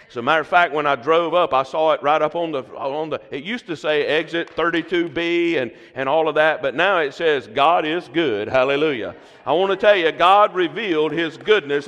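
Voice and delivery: fervent preaching. Real, not acted. Preaching climax, rising fervor.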